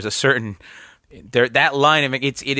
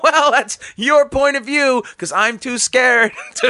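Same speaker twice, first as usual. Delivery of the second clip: nervous laugh; 11 semitones higher, 4 dB louder, slower than usual. Retold or imitated.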